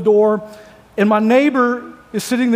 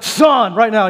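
a sharp, scolding "son,"; a mother calling "son," in a mild scolding tone; stern mother; slower than usual. Pretend. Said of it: "Or she's like".

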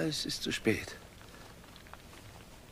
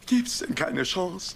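slow plea; 4 semitones higher, slower than usual. Acted. Husband pleading with wife.

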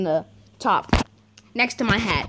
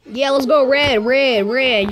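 1 cheering; 2 semitones higher, 5 dB louder, slower than usual. Real, not acted. Cheering on the game team.

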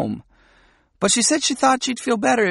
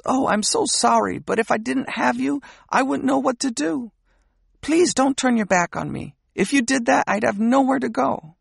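higher, a touch of a retold wail; hugging her and begging, higher and mildly tearful; mild tearful pleading; 5 semitones higher than usual. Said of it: "the girl is really wailing".

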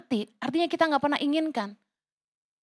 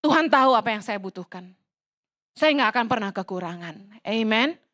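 lower, steady words of trust; calm confident prayer; 5 semitones lower than usual. Shown as a demonstration. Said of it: "Katakan gini". (doa yang tenang dan yakin)

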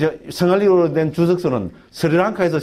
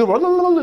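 high imitated foreign gibberish; mock Sinhala babble; 13 semitones higher than usual. Lecturer shows what listeners cannot understand, mock Sinhala babble. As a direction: rattle off rolling nonsense syllables, pitched up. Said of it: "싱할리어로 저기".

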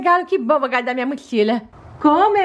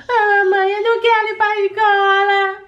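put-on little girl voice; 4 semitones higher than usual. Child doll voice whining to mom.

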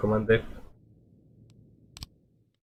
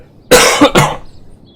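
loud hacking cough; chesty cough; 12 dB louder than usual. Real, not acted. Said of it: "dalej kaszel mnie męczy".

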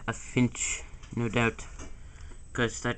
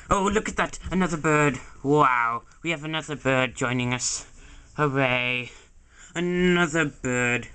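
thrilled, raised voice at each new bird; excited; 2 semitones higher than usual. Acted. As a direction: gush over every new bird. Excited over arriving birds.

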